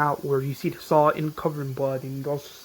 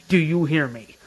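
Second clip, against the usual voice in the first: threat; 6 dB louder than usual. Retold or imitated. Threatening Ed after beating.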